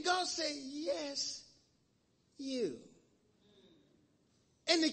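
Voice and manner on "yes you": God's gentle call. Retold or imitated. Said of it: "it was how God said it".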